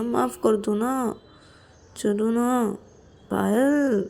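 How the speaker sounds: mild pleading with lingering endings; wheedling apology. Acted. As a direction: coax an upset friend to forgive and come. Acted apology, coaxing friend. (हल्के से मनाते हुए, मिन्नत भरी आवाज़)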